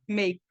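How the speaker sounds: "Make" stopping on the K, no vowel after; ends on K. Shown as a demonstration. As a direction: cut "Make" off at a released K. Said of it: "E acaba no K".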